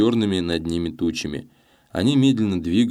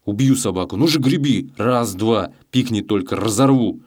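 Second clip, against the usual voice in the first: menacing hissed orders; a thief threatening a scared rower; hissing threats; 3 semitones higher, 3 dB louder than usual. A narrator's reading. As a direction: lean in and threaten him through the teeth. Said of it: "шипел Челкаш".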